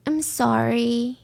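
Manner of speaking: soft, slow, hollow sorry; acted apology without real feeling; unfelt apology. Suspect answering why she did it, soft unfelt apology. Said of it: "they're not feeling the emotions".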